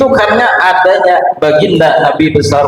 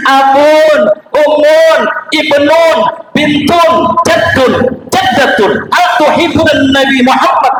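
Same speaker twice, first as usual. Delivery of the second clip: mock Arabic delivery; 8 semitones higher than usual. Preacher greets Arab congregants, hammed-up Arabic style. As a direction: reel off kin names like an Arab host. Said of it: "Ada orang Arab".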